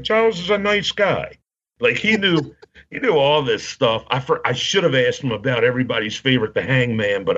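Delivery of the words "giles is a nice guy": high-pitched imitation of the wrestler; Lord Alfred Hayes. Wrestler vouching for a colleague, imitated in a high voice. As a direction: put on his high voice to vouch for someone. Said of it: "He's like".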